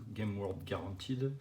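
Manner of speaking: slow English with a French accent. Real, not acted. Collector reading the card's English guarantee, French-accented English. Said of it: "avec mon accent anglais magnifique".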